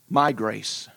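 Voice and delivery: My lifted and leaned on; stress on MY. Acted. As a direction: press the word My, then grace. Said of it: "not anybody else's".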